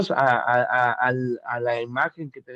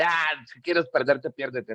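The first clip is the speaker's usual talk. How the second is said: dismissive attitude; slower than usual. Acted. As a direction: imitate someone giving up on a person. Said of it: "No te pongas en un plan de".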